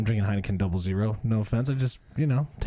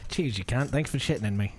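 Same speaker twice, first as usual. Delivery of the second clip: put-on Australian accent. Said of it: "I said it in the accent".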